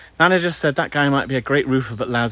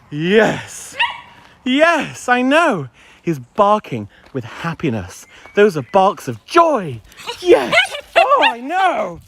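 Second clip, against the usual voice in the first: cooing at dog; 8 semitones higher, much slower than usual. Real, not acted.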